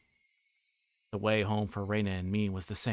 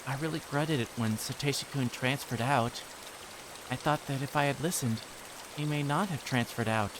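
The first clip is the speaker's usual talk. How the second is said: put-on wistful girl; 4 semitones higher than usual. Reina telling Keiichi about Satoshi, wistful girl. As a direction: sadly recall a lost friend.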